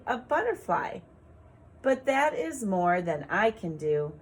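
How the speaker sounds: put-on slow, sing-song poem reading for children; gentle teacher reading a poem; poem read aloud. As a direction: read it like a rhyme for little ones. Rereads poem for rhymes.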